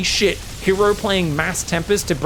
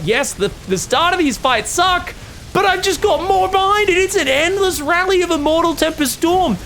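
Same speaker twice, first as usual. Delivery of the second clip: voicing Hero; 13 semitones higher, 3 dB louder than usual. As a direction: lay out the plan like a cocky player. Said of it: "He's like".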